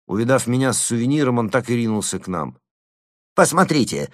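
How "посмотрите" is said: raised, shrill-edged cry, higher and louder; panicked shriek beginning. A narrator's reading. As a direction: start the squeal. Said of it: "завизжал он".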